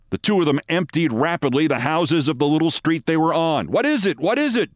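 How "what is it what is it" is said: demanding. A narrator's reading. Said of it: "demanded a fat, waddling man".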